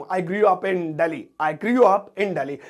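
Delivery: very slow, careful example sentence; slow demo. Shown as a demonstration. Teacher to students, modelling I grew up in Delhi slowly. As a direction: drag each word out for the students. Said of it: "मैं दिल्ली में पला बड़ा हूं".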